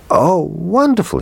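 put-on high, excited child's cry; delighted cry. A narrator's reading. Little boy seeing his birthday presents, excited high cry. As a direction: squeal with joy. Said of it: "he cried".

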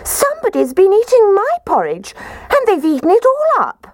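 squeaky little bear voice; squeaky baby bear. Acted. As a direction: squeak it out like a tiny cub. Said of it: "Baby Bear positively squeaked".

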